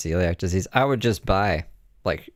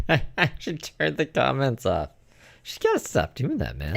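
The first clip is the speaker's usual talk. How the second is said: laughing; 6 semitones higher than usual. Real, not acted. Laughing reaction to clip.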